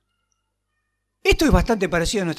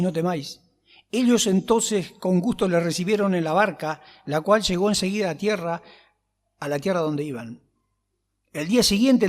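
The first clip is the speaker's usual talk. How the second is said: measured Bible reading voice; reading the Gospel to the church, measured and steady; scripture reading; 3 semitones lower than usual. Acted. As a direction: read the passage steadily to the congregation. Reads scripture aloud before preaching.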